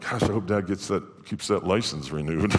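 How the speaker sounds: mock mumble under the breath. Retelling what the kids say after dad comes home a pastor: imitating kids muttering under breath. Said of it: "under the breath they're going".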